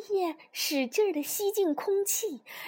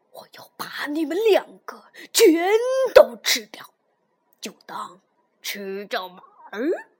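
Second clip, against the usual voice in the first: roaring monster; 7 dB louder than usual. A narrator's reading. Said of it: "怪兽咆哮道".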